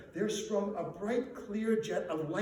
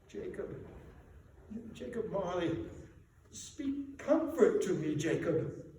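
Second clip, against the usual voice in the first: pleading. Acted. Scrooge pleads with the ghost.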